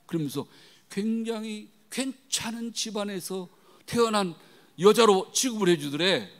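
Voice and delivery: normal talking voice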